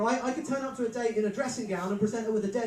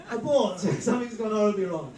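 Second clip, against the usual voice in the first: laughing abort; 5 dB louder than usual. Acted. Comic alarm at the moment.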